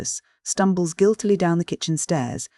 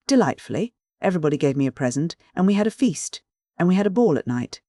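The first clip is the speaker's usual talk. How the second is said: lightly voiced excited Rosa; 3 semitones higher than usual. Narrator voices Rosa delighted.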